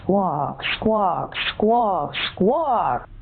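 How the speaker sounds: spoken squawks climbing in pitch; escalating bird squawks. Acted. Caller keeps squawking at agent.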